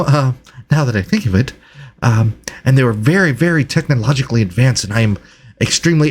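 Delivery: halting delivery with excited little starts; eager, hesitant researcher. Acted. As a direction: play a flustered scholar greeting strangers. Game master voices Reginald.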